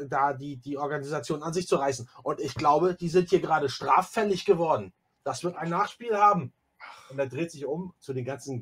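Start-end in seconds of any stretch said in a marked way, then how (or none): 2.2-6.5 louder, rising threat of consequences; pompous warning; indignant accusation. Acted. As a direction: accuse them officiously.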